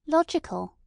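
sharp correcting protest. A narrator's reading. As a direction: insist on the single word. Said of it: "protested the other".

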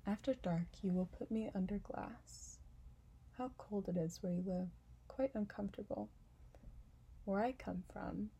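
lightly voiced, fussy flower; fussy and a bit delicate; vain flower voice. Flower demands a glass cover.

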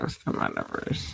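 deep announcer. Acted. Mock announcement of topic.

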